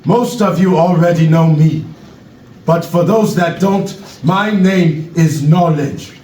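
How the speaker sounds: put-on measured speech in an African accent; Knowledge, African accent. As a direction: address the crowd gravely with an African accent. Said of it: "African accent".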